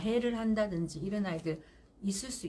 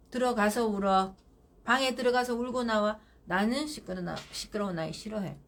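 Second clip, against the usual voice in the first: firm command. Shown as a demonstration. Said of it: "그러니까 어떻게 해요?".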